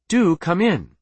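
sniffy, put-out politeness; with a sniff. A narrator's reading. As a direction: invite them in with mild disdain. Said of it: "he said with a sniff".

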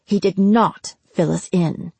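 tight, clenched-jaw anger; gritted teeth. Acted. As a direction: spit it through clenched teeth. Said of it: "said through gritted teeth".

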